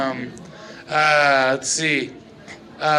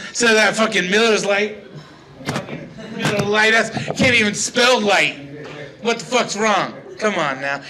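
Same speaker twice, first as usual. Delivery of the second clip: mildly heated comic rant; mock-angry beer tirade; worked-up rant. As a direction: grumble indignantly, getting too worked up. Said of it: "I'm getting way too angry".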